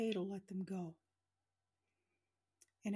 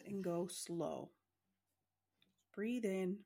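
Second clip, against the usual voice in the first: guided meditation. Acted. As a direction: guide them gently into relaxing.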